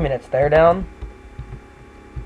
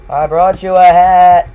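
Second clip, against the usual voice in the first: insistent shout; 2 semitones higher, 6 dB louder, slower than usual. Acted. Repeated louder, slower.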